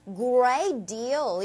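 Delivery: "great deal" with both words lengthened; long, unhurried "great deal"; slightly drawn out. Shown as a demonstration. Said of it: "이런 식으로 살짝 길게".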